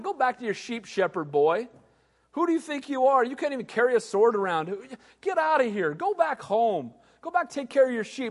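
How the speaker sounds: put-on jeering dismissal of a boy; mocking taunt. Scornful jeer. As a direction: soldiers mocking David to go home. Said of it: "they're mocking him".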